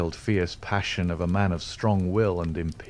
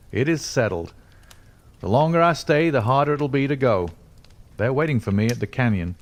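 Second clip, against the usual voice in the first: put-on raised, pressing young man voice; urgent young man; 5 semitones higher, 3 dB louder than usual. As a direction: force the words out, hurrying to leave. Hope tears himself away.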